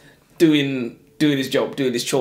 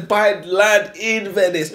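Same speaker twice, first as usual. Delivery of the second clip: imitating a rich bragger; 7 semitones higher, 3 dB louder, slower than usual. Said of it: "And he was like".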